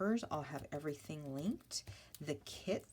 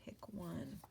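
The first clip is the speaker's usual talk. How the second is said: whisper; 5 semitones higher, 9 dB quieter than usual. Retold or imitated. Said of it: "You're like".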